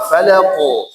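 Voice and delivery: FALAQO with a thick qaf, not rounded toward u. Shown as a demonstration. Quran teacher models Falaqo for class, thick qaf. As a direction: say Falaqo with a heavy, unrounded final qaf. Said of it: "tidak condong ke dhamma".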